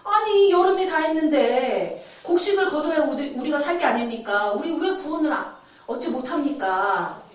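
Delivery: acted indignant protest to God; mock aggrieved pleading; blaming complaint. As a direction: imitate people grumbling at heaven. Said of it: "하나님을 탓하는 거예요".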